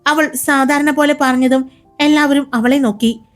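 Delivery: brisk, expressive storyteller voice; story narration. A narrator's reading. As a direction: read it like an audio drama narrator. (കഥ പറയുന്ന ശൈലി)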